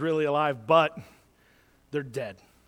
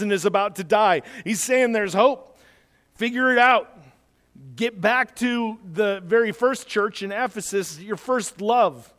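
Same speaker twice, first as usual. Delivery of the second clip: raised, emphatic exhortation; forceful preaching; 4 semitones higher, 3 dB louder than usual. Real, not acted. Preacher calling the church to wake up, forceful preaching. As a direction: urge them on with higher pitch and strong stresses.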